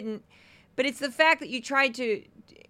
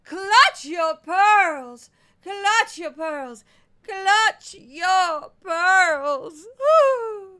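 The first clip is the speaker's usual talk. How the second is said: goofy put-on voice, high, loud and drawn out; 8 semitones higher, 7 dB louder than usual. A podcast host performs a catchphrase in one of the show's usual voices: silly voice. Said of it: "I make a lot of silly voices, and this is one of them".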